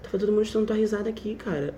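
soft, quick hushed report; friend whispering. Retold or imitated. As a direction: tell it quietly in class. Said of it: "ela falou assim".

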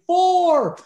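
high, loud golfer's warning yell; mock scream. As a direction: holler it across the driving range, drawn out. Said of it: "he starts screaming".

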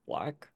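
"black" as the accented way of saying Blake; accent vowel demo. Shown as a demonstration. Player explains the accent's origin, "black" standing in for Blake. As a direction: say "black" slowly, showing the accent. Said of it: "I just need an accent where".

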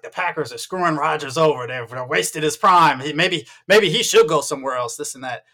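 put-on Southern grumbling local; Southern US accent. Meat counter guy griping about Rodgers, mock Southern accent. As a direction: imitate a Southern fan griping. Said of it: "I don't know why I'm doing that accent".

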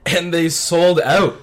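loud and slow, amazed; excited. Real, not acted. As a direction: land it like big news. Excited punchline, sold out.

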